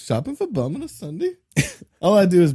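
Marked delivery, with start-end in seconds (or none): 0.0-1.3 higher, lilting mock Irish; badly faked Irish, drifting towards Swedish; attempted Irish accent. Shopper out on a Sunday, mock Irish accent. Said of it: "Now I'm going more Irish".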